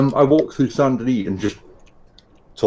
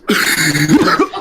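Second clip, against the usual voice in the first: hoarse raspy laugh; 3 semitones higher, 5 dB louder than usual. Pretend. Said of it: "Tom, can you do a Weasel off?".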